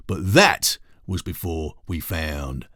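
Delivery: drawn-out, crafty reveal; slow it down, savour the trick; slow sly badger. Harry reveals card.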